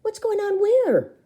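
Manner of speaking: high, slow, puzzled repeat; repeated high question. A narrator's reading. Narrator repeating the question in a high, slow voice. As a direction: ask it again, high and drawn out. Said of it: "I repeat".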